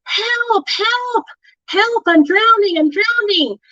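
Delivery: put-on high, desperate calls of a drowning kid; imitating a panicking friend in the lake; panicked cry for help. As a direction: cry out like you're going under. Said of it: "you hear somebody going".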